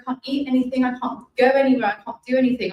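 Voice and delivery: mildly desperate, each clause pushed; tearful retold plea. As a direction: plead helplessly, retelling a breakdown. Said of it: "I just broke down in tears".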